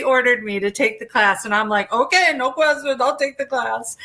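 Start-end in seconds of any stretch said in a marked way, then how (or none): 1.9-4.0 higher, hurried mock compliance; mock-obedient. Retelling her answer to the tough Russian teacher, mock-obedient. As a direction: give in at once, as if ordered. Meekly obeying the ordering teacher.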